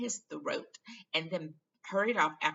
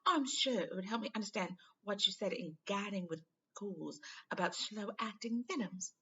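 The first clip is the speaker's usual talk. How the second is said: lightly raised earnest schoolgirl; eager girl asking a favour, a little higher; Hermione voice; 5 semitones higher than usual. Acted.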